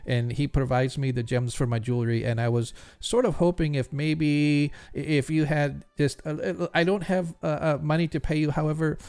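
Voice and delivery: a hint of a stammering, anxious jeweler; nervous jeweler. Jeweler asks the adventurers for help, lightly voiced stammering. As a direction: stumble over the words, eager but timid.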